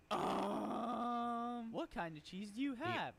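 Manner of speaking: put-on little kid asking. Kid asks about cheese.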